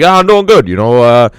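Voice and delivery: lightly voiced hard-luck comedian; sad-sack comic voice. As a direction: grumble it like a comic who gets no respect. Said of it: "And then he'll be like".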